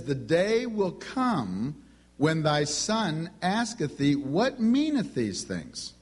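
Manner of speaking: slow, solemn King James recital; scripture reading. Acted. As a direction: read it like holy writ, slowly. Quoting scripture to the audience.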